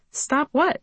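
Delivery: cheerful, innocent question. A narrator's reading. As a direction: play dumb, cheerfully. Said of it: "he said cheerfully".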